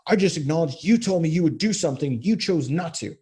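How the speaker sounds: husband mocked repeating his defensive text; mock defensive whine. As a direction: whine it like you've been wronged.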